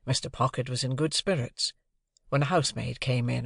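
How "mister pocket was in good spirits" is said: plain reading voice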